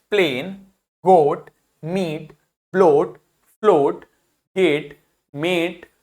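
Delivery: प्लेन, गोट, मीट slowly, each vowel held; slow word list, long vowels in ब्लोट and फ्लोट; long vowel sounds. Shown as a demonstration. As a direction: stretch the first vowel in गोट, मीट, गेट. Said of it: "उसका long sound हो जाता है".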